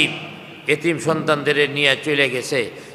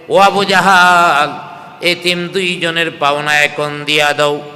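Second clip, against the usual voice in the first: retold scolding; 4 dB louder than usual. Abu Jahl retelling the Prophet's demand, mild scolding. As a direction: imitate a stern demand without raising the voice. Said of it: "ধমক দিয়া বলছে".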